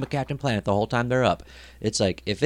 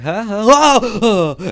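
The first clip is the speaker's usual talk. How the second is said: confused huffs jumping to loud high cries; sudden panic; 10 semitones higher, 9 dB louder, much slower than usual. Retold or imitated. Climber realizing the rope is gone, panicked high yelps. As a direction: realize the danger mid-grab and yelp. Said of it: "And I'm like".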